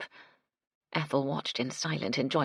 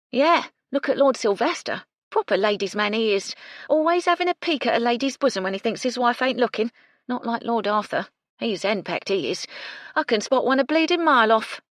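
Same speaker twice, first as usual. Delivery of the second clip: loud, higher, gossipy cockney maid; brash cockney maid; 7 semitones higher, 6 dB louder than usual. A narrator's reading. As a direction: complain like a sharp-tongued kitchen maid. Gertie gossiping about lords.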